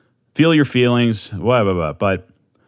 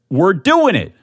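high, loud, stretched-out hype yelling; amped-up yelling; 8 semitones higher, 4 dB louder, slower than usual. Real, not acted. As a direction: yell it like you're fired up at three in the morning. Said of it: "I don't even know what accent that was".

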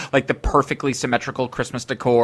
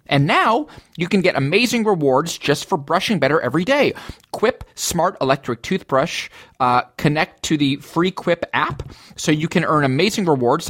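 ad read; 2 semitones higher than usual. Acted. Reads sponsor ad copy.

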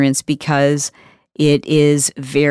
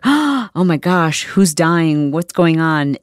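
shocked; slower than usual. Retold or imitated. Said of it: "you're like".

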